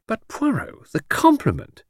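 high-pitched, dismayed appeal; pleading protest. Acted. Friend reminds detective of the compliment, protesting. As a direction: urge him to reconsider.

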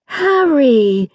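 high, delighted squeal of a name; a girl squealing for her brother. Acted. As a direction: squeal his name with joy. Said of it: "she squealed".

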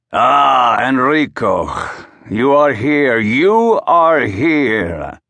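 put-on beam at an old friend arriving; delighted greeting. A narrator's reading. Manager greeting the star tenor on stage, delighted.

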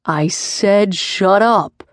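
slow, understated growl, weight on up; a touch of menace, dragged out. Acted. Riker warning Sprig a second time, slow mild growl. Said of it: "he growled".

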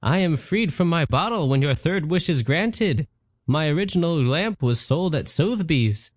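a fussy genie explaining himself; genie Patrick. Acted. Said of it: "The genie replied".

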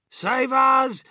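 high, alarmed cry for help; yelled plea. A narrator's reading. Second grandmother pleading in the speeding lift, high yell. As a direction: call out over the din. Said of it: "yelled Grandma Georgina".

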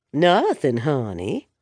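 a hint of a purring, seductive call; sultry female voice. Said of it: "a sultry female voice called".

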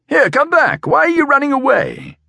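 high-pitched urgent call; calling after her. A narrator's reading. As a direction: call out high to someone running off. He calls after the fleeing woman.

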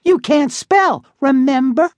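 high, bratty little sister. Acted. Sister voiced in story.

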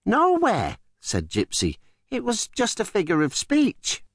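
Gypsy's voice. Acted. Gypsy calms Shanta.

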